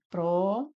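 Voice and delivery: Próxima split into syllables, pró stressed. Shown as a demonstration. Teacher splitting Próxima into syllables for students. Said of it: "Próxima separa dessa forma".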